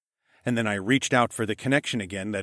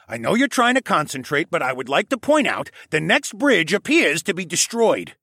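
polite koala elder, raised in pitch and volume; mild-mannered elder; 7 semitones higher, 5 dB louder than usual. A narrator's reading. Koala elder interrupting the runner, mild-mannered and higher. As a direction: point it out politely, voice lifted. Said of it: "the koala elder said in a mild-mannered way".

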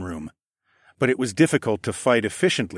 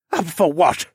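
higher, innocent-sounding question; feigned innocence; 7 semitones higher, 4 dB louder than usual. A narrator's reading. Captive assassin dodges questioning, feigning innocence. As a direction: play dumb with put-on innocence. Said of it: "he asked with feigned innocence".

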